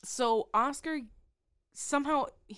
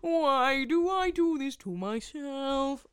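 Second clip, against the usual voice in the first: slow, louder, higher exasperated groan; 6 semitones higher, 7 dB louder than usual. Real, not acted. Host groaning at herself for losing her place, exasperated. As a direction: drag it out in despair.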